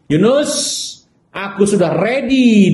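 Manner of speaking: lightly voiced whale announcing it's ready; eager whale. Whale calling Jonah aboard ship, high and eager.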